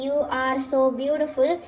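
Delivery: very slow, word by word; slow model sentence. Shown as a demonstration. Teacher repeating the sentence slowly for students. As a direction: say it slowly, rising at the end. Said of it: "यहाँ पे जो ये sentence है".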